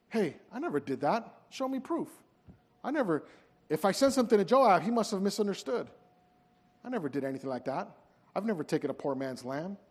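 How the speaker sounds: brushing off the charge quietly; defensive denial. Retold or imitated. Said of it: "responded with denials".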